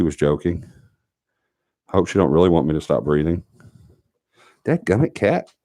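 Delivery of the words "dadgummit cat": high startled cry at the cat; startled yelp. Real, not acted. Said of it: "I'm getting attacked".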